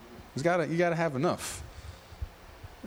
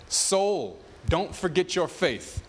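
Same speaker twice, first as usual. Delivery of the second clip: pep talk to self; slower than usual. Retold or imitated. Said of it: "trying to psych himself up".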